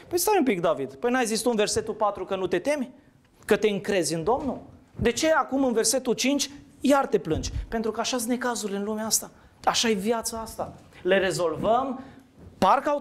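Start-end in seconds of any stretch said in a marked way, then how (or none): 0.1-7.5 higher-pitched, questioning protest to David; mock challenge. Preacher questions David about complaining again, mock challenge. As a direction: challenge him with rising, puzzled objections.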